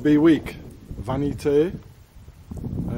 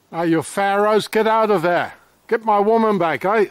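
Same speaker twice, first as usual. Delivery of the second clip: mock rant; 6 semitones higher, 4 dB louder than usual.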